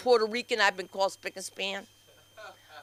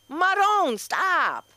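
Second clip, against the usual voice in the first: exasperated call out; 11 semitones higher, 3 dB louder, much slower than usual. Acted. Calling out at husband.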